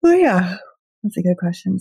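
said through a yawn; yawning mid-sentence, words stretched. Real, not acted. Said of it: "Sorry, I'm yawning".

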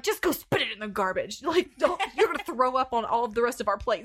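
put-on half-laughing scolding of the kids. Mom retelling how she scolded her gagging kids, laughing. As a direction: scold them while cracking up. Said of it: "And so I'm like".

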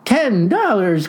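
mild exclamation, slow and savoring; crying out. Acted. Husband spotting a cheaper price, mild excited cry. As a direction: lightly cry out at the bargain. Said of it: "cried Tuck".

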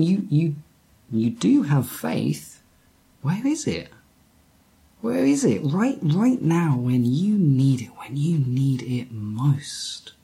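gentle urging. Retold or imitated. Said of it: "He's saying".

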